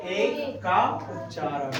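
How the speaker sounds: slow, spelled-out answer; slow it down so pupils copy; slow drill answer. Shown as a demonstration. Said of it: "तो किसका उच्चारण?".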